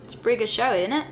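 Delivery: lightly put-on British accent; casual attempt at British English. Shown as a demonstration. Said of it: "That's my British accent".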